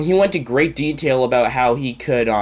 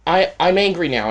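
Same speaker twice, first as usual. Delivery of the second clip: higher, slow, mock-furious; mock angry retort; 5 semitones higher than usual. Quoting the angry viewer who cursed him out, mock fury. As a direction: ham up his tantrum. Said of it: "And then he said".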